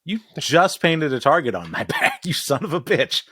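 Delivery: laughing through a mock furious rant; mock angry rant. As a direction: tell him off, hammed-up fury. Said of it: "Masara's like".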